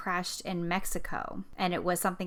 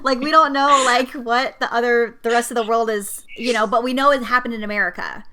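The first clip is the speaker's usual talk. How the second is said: laughing; 4 semitones higher, 8 dB louder than usual. Real, not acted. Laughing while continuing.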